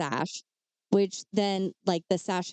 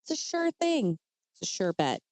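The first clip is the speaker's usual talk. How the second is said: playfully voicing her overconfidence; mock confident wife. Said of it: "as she stated she knew how".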